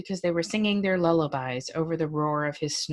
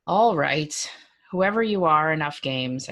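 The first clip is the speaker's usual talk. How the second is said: a firm, raised call; calling the game off loudly; firm, louder; 4 dB louder than usual. Acted. Fed up, calling the stranger out.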